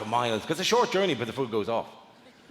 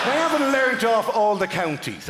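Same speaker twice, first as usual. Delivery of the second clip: mock indignant shout; 6 semitones higher, 3 dB louder than usual. Comedian defends himself to crowd.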